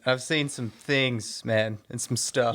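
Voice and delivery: slow, drawn-out mock gravity; mock haunted. Co-host joking about runners' accidents, mock haunted. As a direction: draw it out like a jokey war veteran. Mock-grave account of race horrors.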